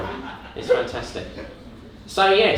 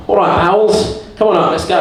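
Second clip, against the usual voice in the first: rallying the bowels; 4 semitones higher, 5 dB louder than usual. Acted. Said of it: "you're like".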